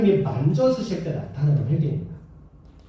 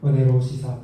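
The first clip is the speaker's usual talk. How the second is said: mock pious; 6 semitones lower than usual. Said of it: "앞에서는 막".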